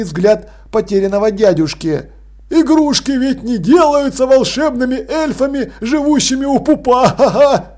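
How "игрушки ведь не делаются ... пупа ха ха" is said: выше и громче, с нервным смешком; неловко хихикает; нервный смешок. Acted. Крохобор нервно шутит. (Крохобор нервно смеётся, оправдываясь)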